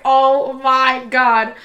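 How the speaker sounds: slow, mock-stunned reaction; drawn-out disbelief. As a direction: stretch each word very slowly. Retold reaction to winning the bet.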